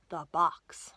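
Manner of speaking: hushed, mysterious title; whispered title. Acted. Reader whispering the story title to listeners.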